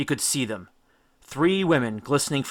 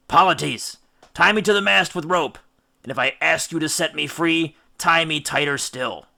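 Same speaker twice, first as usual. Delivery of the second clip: higher, louder firm orders to the crew; commanding captain; 5 semitones higher, 4 dB louder than usual. Acted. Captain orders Polites to bind him, firm and loud. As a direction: bark the order to tie you fast. Odysseus orders being tied to mast.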